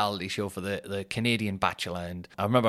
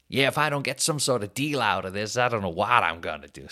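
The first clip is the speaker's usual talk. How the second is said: put-on North American accent. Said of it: "that's my voice, right? Take it or leave".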